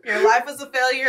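teasing, laughing. Real, not acted. Repeats taunt laughing.

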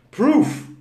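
Proof said slowly, the final F blown out with air. Shown as a demonstration. Teacher demonstrates to the live class: Proof with the F blown out. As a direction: blow air through the F at the end of Proof. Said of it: "Tem que assoprar pra pronunciar".

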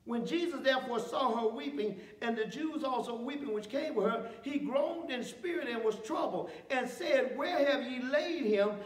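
measured, slowed Bible reading; scripture reading. Acted. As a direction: read the passage with weight. Reads scripture aloud.

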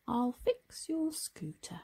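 slow gentle Tom. Acted. Tom speaks slowly.

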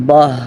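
"বাহ" ending in a faint h; very light h. Shown as a demonstration. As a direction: let a slight h close "বাহ". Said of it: "খুব হালকা হবে". (খুব হালকা হা দিয়ে "বাহ")

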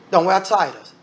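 normal talking voice

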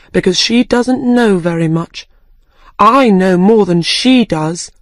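put-on girl questioning who she is; puzzled Alice. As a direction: muse aloud, confused. Alice voiced by narrator.

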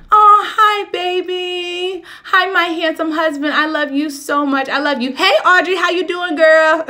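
high, loud, gushing hellos; light up and coo at them; delighted greeting. Real, not acted. Greeting husband on live stream.

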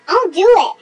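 laughing through the words. Real, not acted. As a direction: say it while laughing. Laughing reply.

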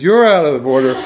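mock defiant yell at a jury; acted courtroom outburst. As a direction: call it out accusingly, hamming it up.

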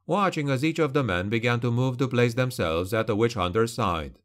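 ordinary delivery

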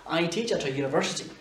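A barely heard between at and university; unstressed article. Shown as a demonstration. Teacher showing how the article vanishes in a sentence, unstressed A. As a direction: swallow the A as a quick uh. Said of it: "Il est quasiment tout le temps inaccentué".

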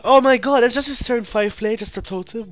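real shock at the opponent's play; stunned disbelief. Real, not acted. Reacts to opponent's weak turn.

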